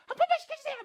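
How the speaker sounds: very high, loud begging call; pleading shout. Retold or imitated. Student begging the teacher loudly on the street. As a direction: beg loudly like an eager kid. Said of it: "막 이런 애들 있다고".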